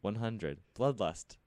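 giggling through robot stats; laughing stat readout. Pretend. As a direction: read the stats while laughing.

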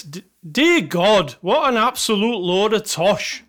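shaky attempt at a Scottish accent; mock-outraged Scottish reviewer; bad Scottish accent. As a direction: put on an amateur Scottish accent for scorn. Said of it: "That's my Scottish accent".

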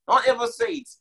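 a sudden high cry of warning; high emphatic warning. Acted. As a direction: jump way up in pitch to drive the warning home. Preacher repeats a warning.

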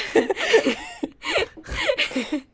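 high, loud burst of laughter; laughing at the retelling; real laugh. Real, not acted. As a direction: crack up laughing. Laughing at the retold text.

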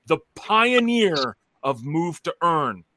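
slow, drawn-out hype announcer; grand announcement. Acted. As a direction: proclaim it like a title. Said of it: "I'm gonna do it again".

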